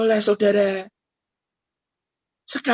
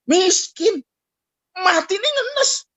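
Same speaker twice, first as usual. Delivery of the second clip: mock lament; 11 semitones higher, slower than usual. Lamenting the disciples' poverty.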